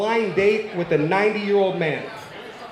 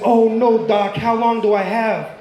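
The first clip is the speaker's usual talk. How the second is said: slow, mildly alarmed plea; mock alarm; 2 semitones higher than usual. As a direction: play a worried patient, drawn out. Patient hears he is terminal.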